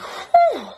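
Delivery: high, loud mock exhale; imitated whew. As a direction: let out a sudden high whoop of nerves. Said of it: "it's literally like".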